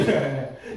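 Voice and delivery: short, low chuckle; short laugh. Real, not acted. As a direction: let a brief chuckle slip out. Preacher laughs mid-story.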